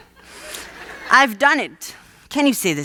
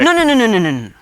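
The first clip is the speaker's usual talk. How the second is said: frantic protest; 3 dB louder, much faster than usual. Acted. Frantic denial to customer.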